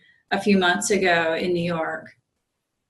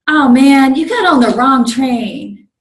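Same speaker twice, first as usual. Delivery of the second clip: higher, louder mock telling-off; berating; 5 semitones higher, 9 dB louder than usual. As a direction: scold him loudly, as the conductor did. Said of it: "berating purple shirt guy".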